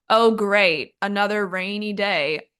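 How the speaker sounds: dry, sarcastic complaint. Shown as a demonstration. Someone unhappy about the weather, sarcastic. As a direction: say it as mock approval of bad weather. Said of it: "so that's sarcasm".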